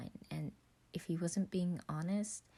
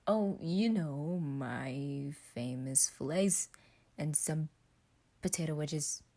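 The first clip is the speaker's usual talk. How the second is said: slow, smug drawl; bragging; slower than usual. Acted. Roman bragging to Virgil about his fillets, smug. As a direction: lean into the boast, slowly.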